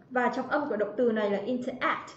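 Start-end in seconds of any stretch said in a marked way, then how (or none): 1.4-2.1 interact with "act" carrying the stress; stress on third syllable. Shown as a demonstration. Teacher repeats interact for class, last syllable stressed. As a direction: put the weight on "act" in interact. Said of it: "trọng âm rơi vào âm thứ ba".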